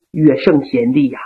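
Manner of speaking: noble general gently scolding his loyal men; Yang Liulang. Acted. Yang Liulang voiced by storyteller.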